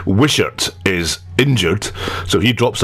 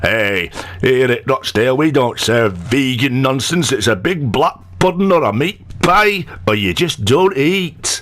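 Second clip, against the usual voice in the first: lightly voiced, higher northern caterer; a hint of a proud Rochdale tea-bar voice; mock Rochdale caterer; 4 semitones higher than usual.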